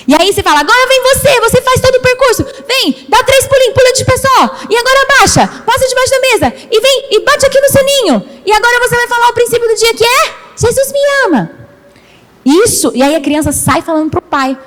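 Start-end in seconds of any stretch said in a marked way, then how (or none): 0.6-11.5 voz bem mais aguda, conduzindo a brincadeira; animando crianças. Acted. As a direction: guide os pequenos pelo percurso num tom agudo e animado. Encena a condução do percurso infantil. (tia animada brincando com as crianças, voz aguda)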